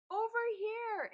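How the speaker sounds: high, loud and drawn out; stretched shout for help; yell. A narrator's reading. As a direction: call out slowly to be seen. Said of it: "Antbite yelled".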